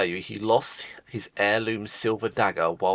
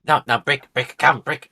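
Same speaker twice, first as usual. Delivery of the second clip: calling Brick over; 5 semitones higher, 6 dB louder than usual. Acted. Game master's character summons Brick.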